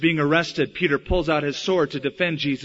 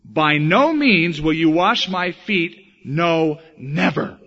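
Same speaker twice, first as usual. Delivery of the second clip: slow, louder flat refusal; stronger refusal; 4 dB louder, slower than usual. Acted. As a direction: dig in, refuse him outright. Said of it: "a little stronger".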